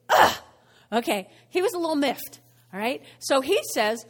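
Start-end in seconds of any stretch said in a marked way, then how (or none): 0.1-0.4 disgusted grunt. Acted. Miffed brother ends his complaint.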